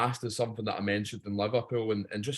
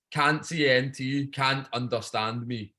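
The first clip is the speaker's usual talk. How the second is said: slowly spaced out, word by word; slow enunciation; slower than usual. Real, not acted. Scotsman testing who can't understand him, slow deliberate delivery. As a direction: spell it out slowly for the listeners. Jokey test of his Scottish speech.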